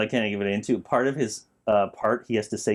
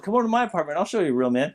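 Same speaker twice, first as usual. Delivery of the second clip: higher Mister T delivery of the apartment line; Mister T impression; 5 semitones higher, faster than usual. Showing how Mister T says apartment, impression. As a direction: say it the way Mister T does. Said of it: "It's just the way he says it".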